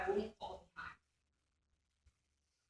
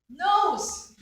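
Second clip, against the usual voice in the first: "Nose!" called out high and loud, with a laugh; loud proud announcement; 10 semitones higher, 15 dB louder than usual. Retold or imitated. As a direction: proudly blurt "Nose!" like a child who is sure she is right. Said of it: "So I loudly pronounced".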